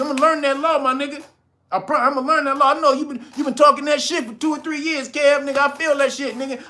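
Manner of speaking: high, rushed voice of a gushing fan making promises; mock eager follower. Host imitating a viewer promising to learn the law, mock eager.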